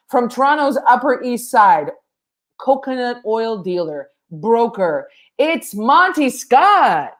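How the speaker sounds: measured build to a drawn-out name; announcer introduction. Real, not acted. Host introduces tonight's panelist, big announcer build.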